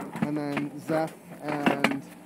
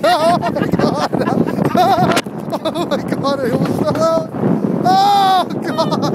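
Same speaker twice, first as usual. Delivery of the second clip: real screaming, much higher and louder; almost falling out; 12 semitones higher, 10 dB louder than usual. Real, not acted. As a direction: scream in panic, laughing between. I almost fell out!.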